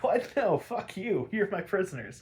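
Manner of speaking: high, indignant villain snap; hammed-up outrage as Mister Freeze; outraged villain. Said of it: "And he's like".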